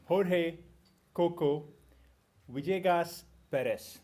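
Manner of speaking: "Jorge Coco Villegas Perez" said slowly and carefully in Spanish; careful Spanish name. Real, not acted. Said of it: "Did I say that right?".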